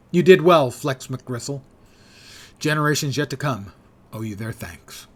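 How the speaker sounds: emphatic game narration; dramatic but light story reading; story text read-aloud. Acted. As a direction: read the mission debrief out to viewers. Reads mission story aloud.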